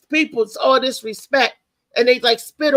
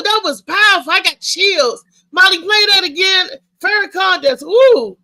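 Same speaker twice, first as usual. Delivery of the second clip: hyped up; 6 semitones higher, 4 dB louder than usual. Real, not acted. Hyped after the speech clip.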